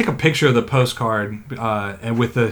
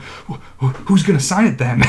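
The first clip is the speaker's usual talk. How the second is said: stammering, lightly panicked voice; mock panicked kid; 3 semitones higher than usual. Kid asking who will sign the hammer, panicked. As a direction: stumble into it, then rise with worry. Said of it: "like, really panicked".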